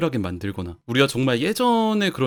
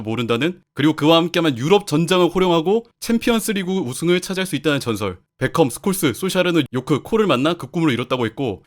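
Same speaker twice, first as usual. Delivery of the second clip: a storyteller opening a legend; story narration; 4 semitones higher than usual. Acted. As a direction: read it like the start of a tale. (전설을 들려주는 이야기 낭독)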